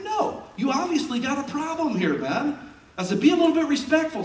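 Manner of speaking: high, loud scolding; preacher retelling how he told the punks off, high and loud; retold confrontation.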